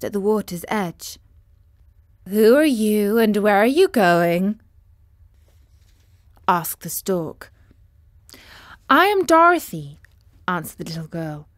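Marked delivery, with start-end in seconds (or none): 2.3-4.6 a lightly voiced stork, asking loud; curious stork. Stork questions the travellers on the riverbank. 8.9-10.0 put-on high bright girl's voice; little girl. Dorothy tells the stork her name, in a girl's voice.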